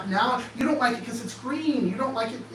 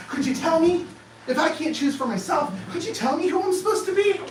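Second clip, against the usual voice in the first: pleading challenge; 6 semitones higher than usual. Real, not acted. Challenging the audience, rising.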